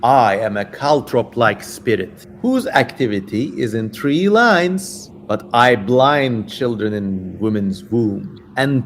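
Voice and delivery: lightly voiced sinister demon. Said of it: "I'm just getting into character now".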